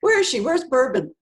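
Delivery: high, loud mock calling out; playful call. Quoting the host calling out for her, playful and loud. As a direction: call across the room teasingly. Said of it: "and he goes".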